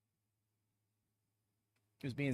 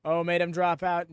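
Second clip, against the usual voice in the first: ordinary delivery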